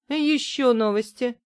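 exclaiming mom. Acted. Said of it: "воскликнула мама".

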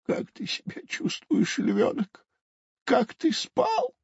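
very high little turtle voice; small, high-pitched character asking after a friend; gentle turtle. Acted. Turtle asks the lion cub how he slept, high turtle voice.

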